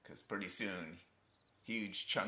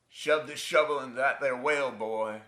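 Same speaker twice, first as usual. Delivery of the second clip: loud, raised-pitch command to a son; father's barked order; 4 semitones higher, 7 dB louder than usual. Acted. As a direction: bark it like a bullying father.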